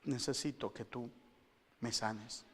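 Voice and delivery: a believer prays softly to the Lord, humble; quiet prayer. Retold or imitated. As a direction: pray it gently. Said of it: "llego delante del Señor".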